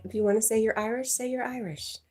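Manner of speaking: mock teasing. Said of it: "I'm kidding".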